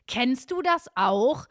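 slow, stagey mock ad opener; hammy, badly faked testimonial; badly acted advert. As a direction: drag it out like a cheap commercial. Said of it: "auch so richtig schlecht geschauspielert".

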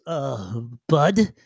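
hesitant, puzzled little digger; a hint of an awkward, formal creature; lightly voiced digger. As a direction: puzzle over the unfamiliar word, formally. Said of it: "He looks up and he goes".

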